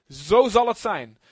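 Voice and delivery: loud, slow, drawn-out pronouncement; binding declaration. Shown as a demonstration. Explaining what amen means, binding declaration. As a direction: declare it like a verdict. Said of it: "Dat, dat betekent".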